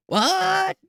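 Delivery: sudden high-pitched what; squeaky startled what; mock shocked what. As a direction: blurt it out like you barely heard. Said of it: "you're like".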